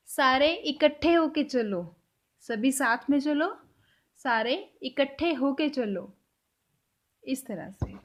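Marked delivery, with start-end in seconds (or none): 0.1-6.1 put-on slow, gentle instruction to kids; telling children. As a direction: gather the children, slowly. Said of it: "अब हम बच्चों को बोलेंगे". (बच्चों को धीमे से बुलाते हुए)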